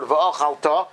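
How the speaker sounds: ve'ochalta, leaning slowly on the final "ta"; end stress. Shown as a demonstration. Teacher showing where the word is stressed, stress on the end. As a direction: stress and lengthen the last syllable of ve'ochalta. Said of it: "you stress the end of the word".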